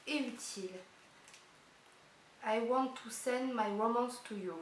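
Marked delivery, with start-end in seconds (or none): 2.5-4.5 put-on French girl hamming up an English accent; mock English accent. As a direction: show off a cheesy English accent for fun. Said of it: "j'ai l'accent anglais qui tue".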